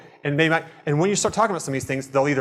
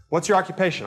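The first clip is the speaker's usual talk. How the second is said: fake interest; 4 semitones higher than usual. Shown as a demonstration. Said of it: "If you're fake with this".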